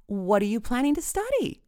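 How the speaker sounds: high, put-on bright question. A narrator's reading. Mom turns to the boyfriend, forcedly bright. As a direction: brighten the voice to keep things polite. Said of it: "making her voice bright".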